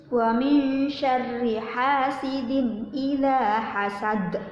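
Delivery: slow, drawn-out tajwid chant; Quran recitation. Shown as a demonstration. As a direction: stretch each syllable in recitation. Recites verse five.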